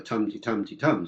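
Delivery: "tum-ti-tum-ti-tum" with strong TUMs and light ti's; stress-timed rhythm. Shown as a demonstration. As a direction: swing "tum-ti-tum-ti-tum" in alternating strong and weak beats. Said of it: "stress-timed rhythm".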